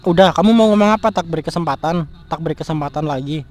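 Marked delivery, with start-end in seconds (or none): 0.1-1.1 louder, impatient demand for an answer; angry demand. Acted. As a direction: bark it as a challenge. Angry boyfriend demanding an explanation.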